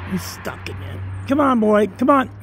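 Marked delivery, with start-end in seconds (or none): 1.3-2.3 raised voice urging the dog on; calling the dog. Real, not acted. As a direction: call him over from a distance.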